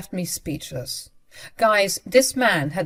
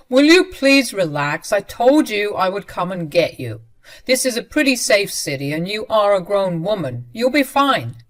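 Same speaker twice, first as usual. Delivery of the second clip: condescending; 2 semitones higher, 6 dB louder than usual. Retold or imitated. Husband telling his upset wife to relax, loud and patronizing. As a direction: talk down to her.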